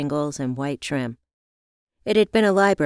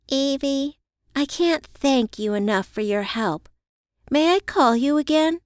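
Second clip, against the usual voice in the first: grateful friend; 9 semitones higher than usual. Acted. Grateful friend voiced in the narration.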